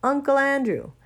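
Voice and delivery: blurting the name all at once; boy shouting the name in recognition. A narrator's reading. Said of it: "And he shouted out".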